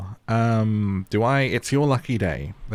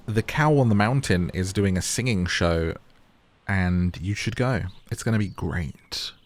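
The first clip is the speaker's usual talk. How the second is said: normal talking voice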